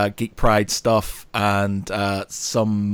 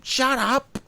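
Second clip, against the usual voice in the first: a sudden, much higher cry of irritation; exasperated outburst; 13 semitones higher than usual. Real, not acted. Podcast host shouting down hated office jargon, exasperated. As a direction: cut them off, fed up. Hates corporate buzzwords, exclaims.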